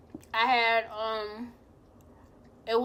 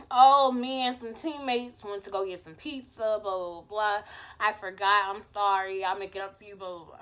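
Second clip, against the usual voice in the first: dismissive mimicry; 4 semitones lower than usual. Boyfriend phoning with excuses, dismissively mimicked. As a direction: rattle off his excuse like it bores you.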